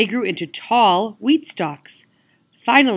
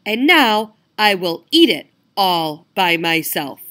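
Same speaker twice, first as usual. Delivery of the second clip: firm hen voice; 5 dB louder than usual. Acted. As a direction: lay it out firmly like a hen. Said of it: "clucked the little red hen".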